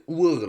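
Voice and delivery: Uhr said the German way, like oor; German pronunciation. Shown as a demonstration. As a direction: say Uhr as a German speaker would. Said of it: "like it sounds in German".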